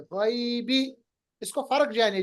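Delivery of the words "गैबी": गैबी with an Arabic ai diphthong, rising; ghaibi, not the Urdu ghaib; Arabic pronunciation. Shown as a demonstration. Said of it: "अरबी में गैब नहीं गैब है". (अरबी उच्चारण में गैबी)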